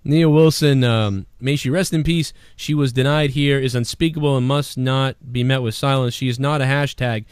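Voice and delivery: solemn mock-earnest reading; lightly mocking a celebrity's earnest post; mocking quote. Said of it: "this girl says".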